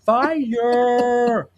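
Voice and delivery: "Fire" said high as "fi-yer" in two syllables. Shown as a demonstration. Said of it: "fire is two syllables".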